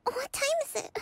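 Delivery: startled awake. Acted. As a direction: jolt awake and ask. Waking up with a start.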